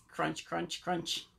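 soft, low crunching noises; munching imitation. Shown as a demonstration. Rabbit shows Bird how to eat it, soft munching. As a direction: say it quietly like little bites.

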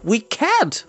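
mildly acted despair. A narrator's reading. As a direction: give up in dismay. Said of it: "answered in despair".

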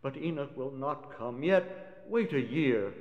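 scared pleading. Acted. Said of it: "scared as it were".

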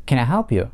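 help stressed in can I help you. Shown as a demonstration. Teacher shows which word takes the stress. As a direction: lean on help, the rest light. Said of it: "ударение падает на глагол help".

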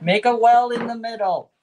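muffled through a face mask; talking through a face mask. Real, not acted. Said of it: "it's really hard talking through the, the mask".

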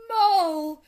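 loud, high, drawn-out name; booming, stretched exclamation; emphatic address. A narrator's reading. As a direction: call out the name weightily. Badger addresses mole weightily.

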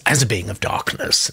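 lightly put-on accent of a dark being; a hint of a put-on Lex accent. Host reads Lex's comment aloud in a lightly imitated Lex accent. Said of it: "I said that with a Lex accent".

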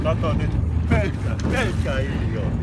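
scornful loud jab at the boaters; loud insult. Real, not acted.

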